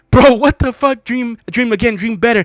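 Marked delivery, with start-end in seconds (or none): 0.1-1.0 loud, high laughing outburst; laughing disbelief. Real, not acted. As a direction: crack up in disbelief. Breaks down laughing at the poem.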